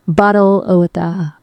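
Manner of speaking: weak, badly faked English accent; attempted English accent. Shown as a demonstration. AI copies the user, shaky attempt at English accent. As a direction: attempt English vowels on "bottle of water". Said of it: "do the English accent".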